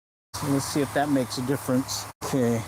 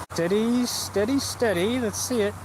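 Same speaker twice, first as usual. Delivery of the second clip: eager coaxing; 8 semitones higher than usual. Real, not acted. Coaxing a fish onto the line.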